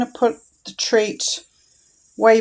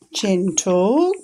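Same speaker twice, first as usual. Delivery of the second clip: gentle tone. Shown as a demonstration. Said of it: "we're gonna say it in a gentle tone".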